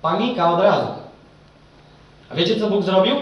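loud, driven sermon delivery, pressing each phrase; fervent preaching. Acted. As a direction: preach it to the whole hall with full force. Preacher addresses the congregation.

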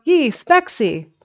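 high, slow, drawn-out call; yelling. A narrator's reading. Jimsy hails Specs from the kitchen window, yelling. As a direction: stretch the name out as you call. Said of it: "he yelled from the kitchen window".

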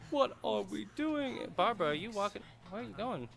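a silly cartoon hero calling out; goofy high voice. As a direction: play Frank as a dim, high-voiced goof. Goofy voicing of Frank.

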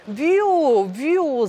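high, loud gleeful whoosh; happy whoosh. Acted. Paper plane flies out of the box, gleeful whooshing. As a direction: zoom off with joy. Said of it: "zawołał szczęśliwy".

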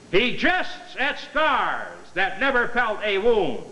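slow, overblown Shakespeare recital; hammy Romeo. Acted. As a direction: declaim it like a ham actor. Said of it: "this is a rehearsal now for Romeo and Juliet".

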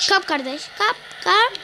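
yüksek sesle kap diye bağırıyor; bağırarak çağırma. Real, not acted. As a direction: topu kapması için bağır. Maçta topu kapmaya çağırıyor. (maçta heyecanla bağırıyor)

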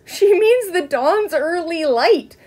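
high, slow, mocking over-enunciation; exaggerated distinctness. A narrator's reading. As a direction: spell it out word by word, teasingly. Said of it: "pronounced each word with exaggerated distinctness".

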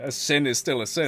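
a hint of a solemn zealot judging; pious villain. Quoting the villain Mosgus to his friend, lightly voiced pious judge. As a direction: pronounce it like righteous law.

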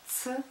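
spelled letter by letter; dictating. Shown as a demonstration. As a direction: spell «Ц-и-р-к» sound by sound. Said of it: "Пишу". (диктует по буквам)

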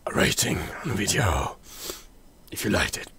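soft, half-voiced put-on whisper; mysterious whisper. Holds whispery voice through note signature and outro.

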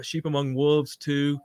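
ordinary talk, nothing marked

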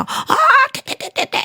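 high, loud, slow sputtering; spitting out sputter. Acted. The wife spits out a marble, high sputtering cry. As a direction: spit the marble out.

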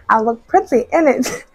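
giggly, self-amused repeat; laughing. Real, not acted. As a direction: say it again while laughing at yourself.

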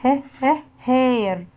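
"ه، ه" as short beats, then "هير"; phonics drill. Shown as a demonstration. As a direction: sound out H twice before "هير". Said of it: "هنوصل كلمات حرف ال H". (تدريب صوتي: "ه، ه" منفصلة ثم "هير")

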